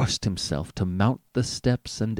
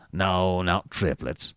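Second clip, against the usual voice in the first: cutting; 4 semitones lower, slower than usual. A narrator's reading. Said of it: "answered the doctor cuttingly".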